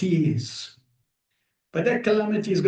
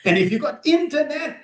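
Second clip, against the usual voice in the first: mock casual advice, quick and light; tossing off easy advice as the guru might have; imagined Prabhupada. A preacher voicing his teacher waving off temple life. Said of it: "he could have easily said".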